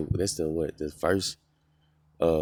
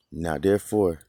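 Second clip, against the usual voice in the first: slow, loud, raised voice on fear the Lord; loud all caps reading; 2 semitones higher, 5 dB louder than usual. Shown as a demonstration. Preacher reading scripture to his listeners, slow and booming. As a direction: boom out the all caps words slowly. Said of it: "all caps".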